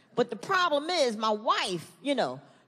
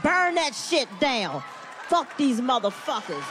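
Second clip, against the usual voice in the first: mock angry rant; 3 semitones lower than usual.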